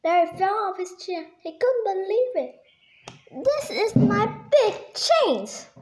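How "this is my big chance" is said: higher and slow, breaking into a laugh; thrilled little moose with a laugh; excited exclaim. Acted. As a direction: savor the big chance with a giddy laugh. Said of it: "Barry exclaimed".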